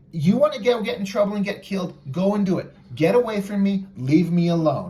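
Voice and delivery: mildly angry, emphatic send-off; angry rejection. Acted. Trapjaw telling Merman to leave him alone, mildly angry.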